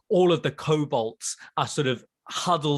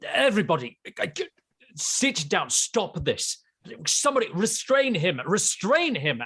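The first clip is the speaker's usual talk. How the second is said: Drex ordering everyone; 6 semitones higher than usual. Acted. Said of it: "as you hear Drax's voice".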